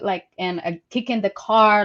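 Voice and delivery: ordinary talk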